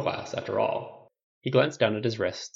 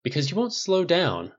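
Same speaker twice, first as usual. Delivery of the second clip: higher-pitched, emphatic commercial read; ad voiceover; 7 semitones higher than usual. A narrator's reading. Announcer over footage of a woman running, ad voiceover. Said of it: "Man's voiceover".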